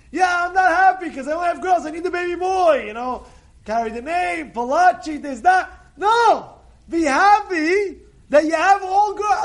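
preaching at full force. Acted. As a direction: urge the congregation to be grateful.

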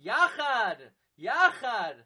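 YACHAD set apart, with a falling tune; stress on YACHAD. Shown as a demonstration. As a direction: repeat "Yachad" as the key word, each time falling. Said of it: "The emphasis on Yachad".

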